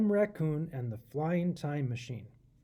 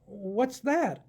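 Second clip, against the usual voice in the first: excited; 5 semitones higher than usual. Acted. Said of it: "Adam shouted excitedly".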